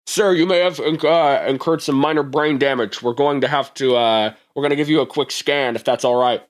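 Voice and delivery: a lightly voiced polite medic. Medic telling the robot about brain damage, lightly polite. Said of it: "One of them goes".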